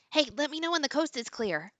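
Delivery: high, hushed in-character whisper; whisper to him. Acted. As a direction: whisper it secretly to an accomplice. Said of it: "and whisper to him".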